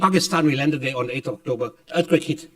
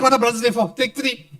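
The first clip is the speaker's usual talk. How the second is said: Air Force man's voice; 8 semitones higher, 3 dB louder than usual. Retold or imitated. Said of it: "He said".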